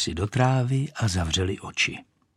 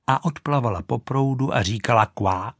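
ordinary delivery

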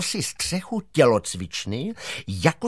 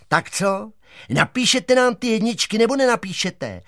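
mild demanding shout, pitched up; 7 semitones higher than usual. A narrator's reading. Giant holding the teacher demands top marks, shouting. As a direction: raise your voice into an ultimatum. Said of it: "a křičel na ní".

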